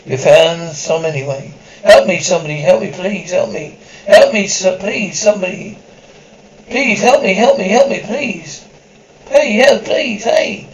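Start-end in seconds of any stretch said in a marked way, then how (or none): 1.8-10.7 desperate pleading. Acted. Man chased, begging strangers: desperate pleading.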